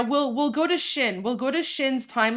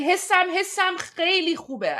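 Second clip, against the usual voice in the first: quick, higher, lightly voiced joyful man; imitating the happy man; 6 semitones higher, faster than usual. Streamer imitating the cheering man in the clip, quick and higher. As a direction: echo his delight at a quick clip. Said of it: "He's like".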